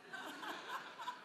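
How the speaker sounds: quick breathy laugh at himself; a short unvoiced chuckle. Real, not acted. Pastor laughing at his own forgetfulness, breathy laugh.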